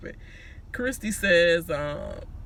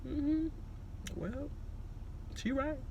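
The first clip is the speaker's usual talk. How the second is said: imitating Cliff; 8 semitones higher, 11 dB quieter than usual. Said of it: "Cliff was looking like".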